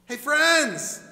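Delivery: second, gentler hey, friends. Acted. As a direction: call again, easing off. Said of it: "He's going".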